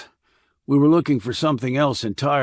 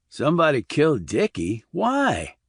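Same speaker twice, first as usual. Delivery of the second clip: surprised; 3 semitones higher than usual. Acted. Randy alarmed.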